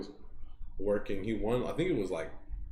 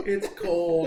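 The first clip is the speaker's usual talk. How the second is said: put-on high, louder whimpering old lady; old granny voice; 7 semitones higher, 5 dB louder than usual. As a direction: shiver it out like a lost granny. Granny voice in the prank.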